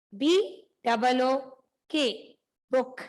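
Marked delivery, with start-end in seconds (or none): 1.9-3.0 book said with a short u, like "buk"; short oo sound. Shown as a demonstration. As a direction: keep the oo in book short and clipped. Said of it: "इसको हम बुक नहीं पढ़ेंगे, we read it as book".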